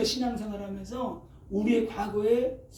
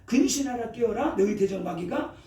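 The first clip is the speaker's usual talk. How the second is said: 성경 구절을 힘주어 낭독; 경고하듯 또박또박 읽기; scripture reading; 3 dB louder than usual. Acted. Reads scripture aloud. (설교자가 성도들에게 말씀을 선포하듯 낭독)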